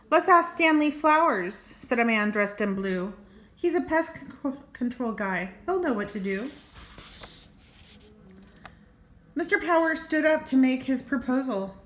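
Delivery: lively read-aloud storytelling; story narration. A narrator's reading. Reading a squirrel picture book to kids, storytelling voice.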